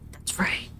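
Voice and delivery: hushed, half-whispered self-satisfaction; low-key, barely voiced gloating; smug murmur. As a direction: mutter it very softly under your breath. Smug trucker murmurs to other driver.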